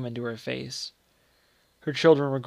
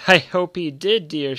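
higher, louder words through a laugh; bitter laugh; 4 semitones higher, 8 dB louder, slower than usual. A narrator's reading. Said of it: "again with a laugh, but rather bitter".

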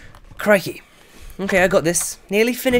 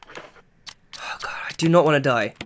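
fast frightened whisper; whispering while creeping past danger; scared whisper; 5 semitones lower than usual. Real, not acted. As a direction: whisper it quickly, terrified. Whispers in fear.

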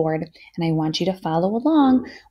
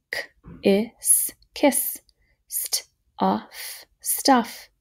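whispered; 3 semitones higher, much slower than usual. Shown as a demonstration. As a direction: whisper "St-a-f" without voice. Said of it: "we can finger spell them".

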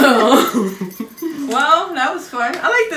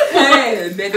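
rock-and-roll crooner; a singer; 4 semitones lower than usual. Acted. Player retrying the singer's greeting, impression of a singer. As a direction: croon it like a fifties idol. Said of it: "a singer".

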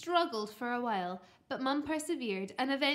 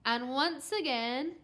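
ordinary delivery, nothing marked

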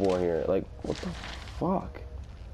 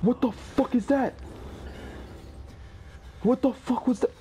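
high-pitched stunned disbelief; shocked high cries; 6 dB quieter than usual. Real, not acted. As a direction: cry out at the creature. Repeated shocked cries in horror game.

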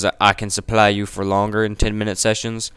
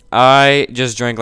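slower and louder; louder retake; 2 semitones higher, 6 dB louder, much slower than usual. Real, not acted. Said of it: "I cannot hear myself talking".

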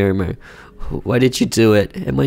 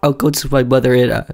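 wife leaving; 3 semitones higher than usual. Acted. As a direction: say you're going, trying to stay calm. Wife voiced higher.

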